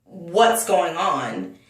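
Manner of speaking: very slow, deliberate question; retold slow, careful asking; measured, after a pause. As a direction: draw the question out slowly, as if taking stock. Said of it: "I took a pause and I said".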